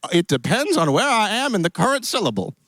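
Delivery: put-on cowboy accent. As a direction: play a genial Western cowboy host. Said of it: "Is your accent supposed to be".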